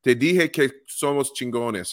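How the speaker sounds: reading a fan's tweet in slow, hammed-up Spanish; a slightly clumsy Spanish reading, stretched out; Spanish accent. Podcast host reads a fan's Spanish tweet in a Spanish accent. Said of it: "my horrible Spanish accent".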